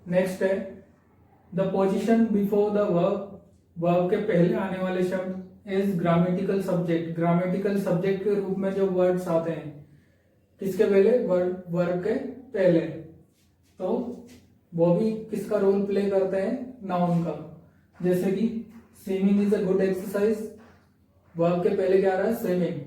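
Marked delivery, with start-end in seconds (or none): 1.5-3.2 slow dictation. Shown as a demonstration. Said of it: "teacher reads heading slowly". 19.0-20.4 slow dictation. Shown as a demonstration. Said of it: "teacher reads example slowly".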